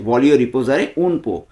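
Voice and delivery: slow, each word spelled out for learners; slowly. Shown as a demonstration. Teacher slowing down so viewers can repeat. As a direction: say voglio riposare un po' slowly and clearly, word by word. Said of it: "আমি slowly বলছি".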